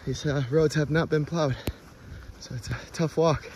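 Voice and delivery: out of breath, pushing words out; puffing between words; heavy breathing. Real, not acted. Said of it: "Apologize for my breathing".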